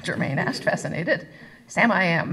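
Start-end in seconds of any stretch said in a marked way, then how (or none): 1.7-2.3 cross. Acted. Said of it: "Mandy said crossly".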